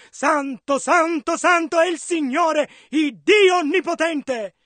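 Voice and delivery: crying out in measured proclamation; mild cry. Acted. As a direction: proclaim it as the seraphim's cry, restrained. (grido contenuto, proclamato)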